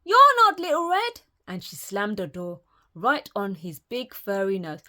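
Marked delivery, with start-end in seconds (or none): 0.0-1.2 louder, higher alarmed cry; Granny yelling at the wolf; shocked yell. Acted. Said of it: "yelled Granny".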